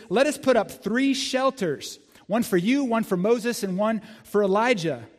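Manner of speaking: excited disciple making plans; eager Peter. Acted. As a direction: lay out the plan with giddy eagerness. Peter proposes shelters, acted.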